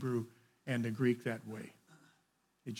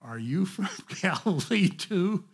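mocking sneer; 7 semitones higher, 9 dB louder than usual. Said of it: "They replied".

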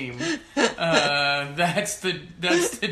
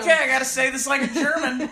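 mock voice actor; 7 semitones higher, 7 dB louder than usual. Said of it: "Can you imagine".

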